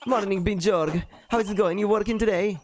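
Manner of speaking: high-pitched, friendly in-character hello; cheery villager greeting. Acted.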